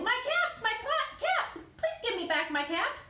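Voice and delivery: high pleading cries after a parade; desperate calling. Acted. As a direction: call out after them, begging for the caps.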